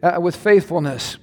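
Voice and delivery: earnest prayer with music under it. Acted. Pastor praying over congregation, earnest prayer voice. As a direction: pray over the congregation, steady and devout.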